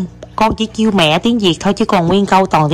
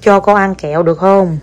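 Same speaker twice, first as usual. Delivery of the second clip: very slow, each word laid out; feed the phrase word by word for a child to copy; slow dictation. Shown as a demonstration. Mother dictates a polite request, very slowly. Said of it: "dictates phrase for child".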